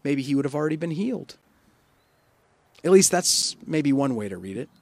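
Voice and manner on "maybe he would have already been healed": higher, taunting voice; scornful lecture. Acted. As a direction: belittle the father for weak faith. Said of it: "just an insult at this father".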